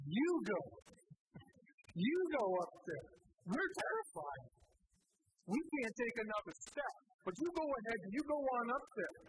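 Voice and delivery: hammed-up panic, punching the first words; mock-terrified pleading, pitch jumping up; mock freaked-out people. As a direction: play a scared crowd sending someone else ahead. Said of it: "They freak the crud out".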